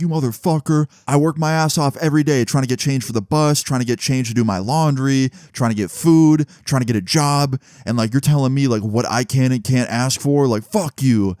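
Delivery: retold angry outburst. Homeless man crashing out on the storyteller's friend, retold mildly angry. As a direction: imitate someone crashing out, without shouting. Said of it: "starts crashing out on Eric".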